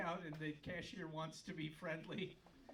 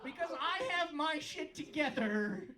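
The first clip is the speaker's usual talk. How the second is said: mock indignant rant; 5 semitones higher, 4 dB louder than usual. Ranting at slow shoppers.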